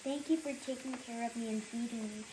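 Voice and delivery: reading a love letter. Real, not acted. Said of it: "Here's the letter I gave you".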